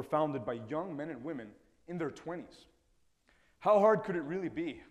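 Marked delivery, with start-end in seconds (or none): 3.6-4.8 louder, higher mock-naive confidence; a cocky, carefree toss-off question; naive self. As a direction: play your younger self, breezily overconfident. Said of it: "I remember my naive self thinking".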